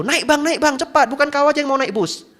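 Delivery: high, loud urgent calls; bus conductor calling. Retold or imitated. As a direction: hurry passengers aboard. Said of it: "Kernet-kernet bus itu". (kernet bus berteriak memanggil penumpang)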